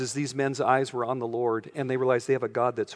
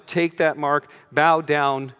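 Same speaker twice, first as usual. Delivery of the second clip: commanding order; 6 dB louder, much slower than usual. Retold or imitated. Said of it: "he will force everyone".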